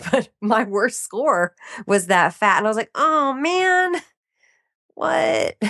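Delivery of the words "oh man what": high, stunned "oh man, what?"; shocked disbelief. Retold or imitated. Learning butter is her worst score, mock shocked. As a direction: gasp at bad news in mock dismay.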